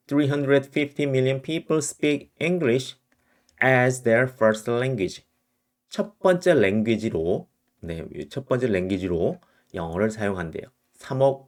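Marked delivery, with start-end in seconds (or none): 0.1-5.2 slow reading. Shown as a demonstration. Reading example sentence aloud.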